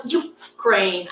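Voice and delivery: "Ukraine" split, with the "U" punched on its own; misstressed Ukraine. Shown as a demonstration. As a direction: mimic the wrong first-syllable stress in "Ukraine". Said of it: "I can't even say it that way".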